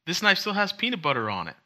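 high, frustrated mock outburst; exasperated quote. Friend griping at a broken dishwasher, high exasperated voice. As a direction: act baffled at the dirty knife. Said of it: "and you're like".

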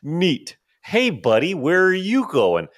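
very high, chirpy fake-cheery voice; breezy, overly friendly act; playing dumb. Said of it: "I'll be like".

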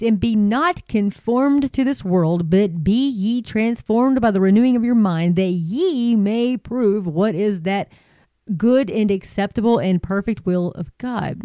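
slow, measured reading of a Bible verse; scripture reading. Acted. Preacher reading Romans to viewers, slow and solemn. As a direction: read the verse slowly and solemnly.

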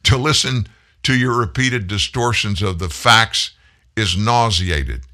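sneering read, slowing into the last words; imitated sneer. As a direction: quote it with mild mock disdain. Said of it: "I'm gonna sneer just like he did".

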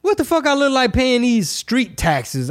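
retold indignant disbelief, topping the first; incredulous retort, bigger. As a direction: push the disbelief further on the repeat. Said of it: "I'm like".

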